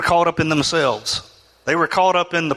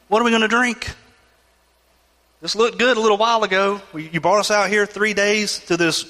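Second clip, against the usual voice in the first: higher, whining complaint at God; grumbling Israelites; 4 semitones higher than usual. Acted. Preacher voicing the thirsty Israelites, higher whining grumble. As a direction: whine like thirsty people dragged through the desert.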